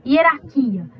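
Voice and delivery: Hierarquia com o "quia" acentuado e mais alto; sílaba forte marcada. Shown as a demonstration. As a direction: destaque a sílaba tônica de Hierarquia. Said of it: "o hierarquia não tem acento, mas você sabe que a sílaba mais forte". (sílaba tônica enfatizada)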